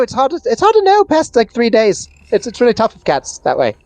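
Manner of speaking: high-pitched, stumbling cat character; chatty cats. Acted. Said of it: "they, they go".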